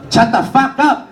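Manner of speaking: high, loud snap; dad snaps. Retold or imitated. Father silencing his son, loud snap. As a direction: cut him off sharply. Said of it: "And he goes".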